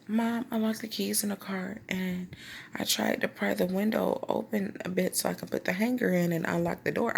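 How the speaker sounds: feed mom a made-up excuse; acted innocent pleading; lying to mom. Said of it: "I was lying my butt off".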